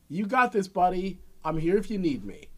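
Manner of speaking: encouraging parent. Acted. Models encouraging a climbing child.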